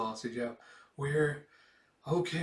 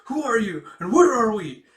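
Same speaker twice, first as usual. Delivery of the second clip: loud, high demanding yell; a startled girl yelling her questions; angry shout; 8 semitones higher, 12 dB louder than usual. Acted. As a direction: bellow it at the stranger.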